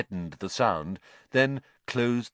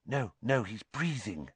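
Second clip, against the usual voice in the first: soft, hushed reassurance; whispered; 2 semitones higher, 7 dB quieter than usual. A narrator's reading. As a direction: keep it down, near a whisper. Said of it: "whispered Hermione".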